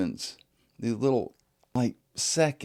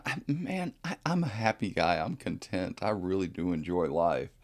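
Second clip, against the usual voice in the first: ordinary delivery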